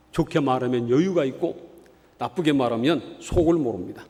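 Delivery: normal talking voice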